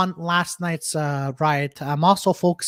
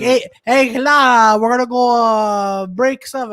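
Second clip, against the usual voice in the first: put-on French accent; 3 semitones higher, slower than usual. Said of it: "I was trying to do a French accent".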